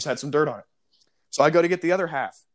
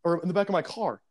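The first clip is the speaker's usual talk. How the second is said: mock whiny customer; 5 semitones higher than usual. Customer complains to manager.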